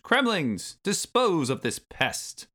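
high, loud, slow villain order; scream. A narrator's reading. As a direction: bellow the command at the troops. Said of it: "Then he screamed".

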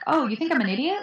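unfazed, lightly questioning comeback; super calm. Acted. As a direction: answer the insult calmly, lifting the pitch. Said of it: "I say super calm".

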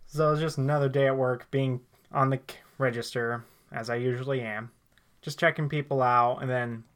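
telling a story in a thickened southern accent; stronger southern accent. Real, not acted. Man telling friends a work story, thicker southern accent. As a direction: lean on purpose into a southern US accent. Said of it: "mentally switch to a more southern accent".

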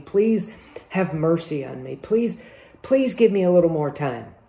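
mild acted plea, lifting on the repeated please; begging. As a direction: plead for mercy, lightly acted. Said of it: "starts begging the king".

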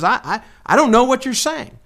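a cornered man insisting he knows nothing; panicked denial. Retold or imitated. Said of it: "He says".

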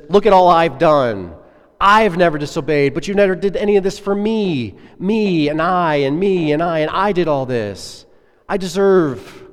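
a son listing his merits indignantly; self-righteous complaint. Acted. Older son's self-righteous boasting.

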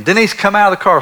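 calling across the car wash to his wife; lightly reenacted shout for Denise. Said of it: "So I start screaming for Denise".

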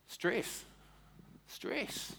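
stress, then whispered stress; fading stress. Acted. Preacher repeating stress to congregation, fading to whisper. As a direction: let the word die to a whisper. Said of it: "repeats stress softer each time".

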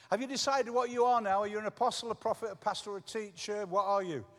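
retold young pastor pressing for a title; other pastor's eager question. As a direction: lightly act his pushy question. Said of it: "he said".

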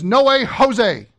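drawn-out No way, Jose; playful slow punchline; slow emphatic. Shown as a demonstration. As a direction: stretch out No way, Jose slowly. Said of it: "If you have a Spanish translation".

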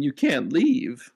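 menacing slow "you can't leave"; lightly menacing barkeep blocking the exit; slow, insistent bartender. Acted. Bartender insists they stay.

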